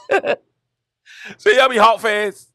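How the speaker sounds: put-on high kid voice, words dragged out very slowly; stretched-out kid question. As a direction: pull every word long, mock-pleading. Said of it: "I was like".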